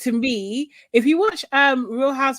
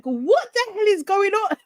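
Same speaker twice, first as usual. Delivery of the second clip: mock shock; 10 semitones higher than usual. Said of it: "I was just like".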